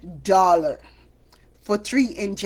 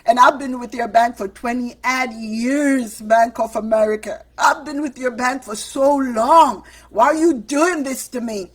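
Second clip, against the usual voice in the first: pleading with the bank; 4 semitones higher, 5 dB louder than usual. Retold or imitated. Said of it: "I was like".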